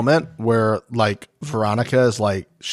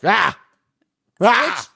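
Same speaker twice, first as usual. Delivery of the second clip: short, high imitated "ah" yells; mock yell; 9 semitones higher than usual. Mel jumps in yelling at Turbo, mock yells. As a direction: imitate someone jumping in with yells. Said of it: "coming in and yelling at Turbo".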